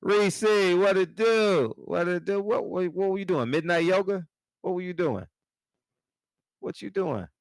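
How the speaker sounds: high, loud drawn-out greeting; loud high teasing greeting to Reese in the chat; calling out. Real, not acted. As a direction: hail her across the room, teasing. Greeting Reese who just appeared.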